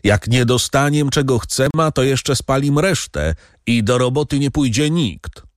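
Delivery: high-pitched threat from a crowd; calling out. A narrator's reading. Farmhand threatens fire and strike, calling out. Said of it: "Jeden głos zaczął wołać".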